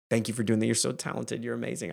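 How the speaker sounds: put-on softly heaping praise on a child; lightly voiced doting parent; tender, quiet admiration; caring. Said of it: "I'm caring and heaping love on them".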